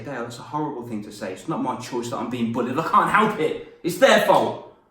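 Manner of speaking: building to a loud protest; a child's complaint swelling to a loud "It's their fault"; upset student. Retold or imitated. Students protesting to Dale, rising to a loud complaint. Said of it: "a lot of people come to me and say".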